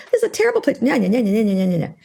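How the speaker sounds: high sing-song whiny nya-nya; mock whining. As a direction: parody yourself complaining like a child. Mocking her own past whining.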